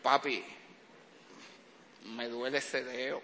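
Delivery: lightly voiced child faking pain; a hint of a small boy whining at night; whiny little son. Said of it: "Típica de Benjamín".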